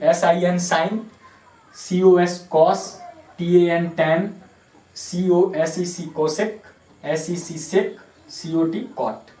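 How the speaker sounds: slow letter names, each set followed by its word: sin, cos, tan, cosec, sec, cot; spelling-out pronunciation demo. Shown as a demonstration. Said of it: "जो pronounce किया जाता है वैसे ही". (अक्षर-अक्षर बोलकर फिर sin, cos, tan, cosec, sec, cot का पूरा उच्चारण)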